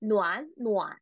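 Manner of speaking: "nuan nuan" with both syllables kept in third tone; unchanged third tones on "nuan nuan"; wrong tone pairing. Shown as a demonstration. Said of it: "We won't say".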